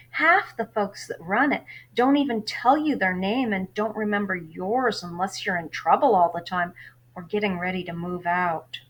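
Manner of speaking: lively read-aloud of a novel for class; story narration. A narrator's reading. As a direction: read the chapter to your students, lively. Teacher reads novel aloud.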